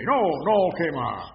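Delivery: retold shout. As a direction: call out to stop them burning. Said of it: "Y yo grité". (grito contado, firme)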